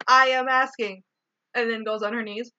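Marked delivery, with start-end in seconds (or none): 0.1-1.0 emotionless. Retold or imitated. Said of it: "She goes like this, literally like this".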